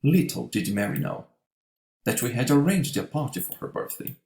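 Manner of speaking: "Little" stressed at the very start. Shown as a demonstration. Teacher demonstrates the emphatic inversion, stressing "Little". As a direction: hit "Little" firmly, then run on. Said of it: "By being more emphatic, using an inversion".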